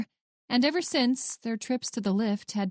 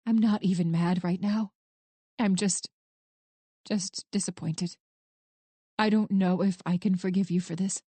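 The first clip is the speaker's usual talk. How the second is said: calm, matter-of-fact. Acted. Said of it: "The statement was calm and matter-of-fact".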